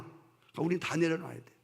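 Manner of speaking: usual speaking voice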